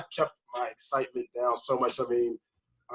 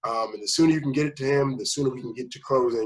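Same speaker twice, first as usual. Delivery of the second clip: calming; 3 semitones higher, 4 dB louder than usual. Retold or imitated. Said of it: "Sharice would say".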